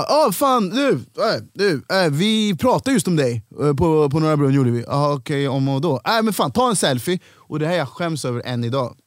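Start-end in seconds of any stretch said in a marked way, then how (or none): 0.0-7.2 imitating Peppe. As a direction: play the sudden buddy who gets caught out. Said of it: "Så han bara". (överdrivet kompisig röst)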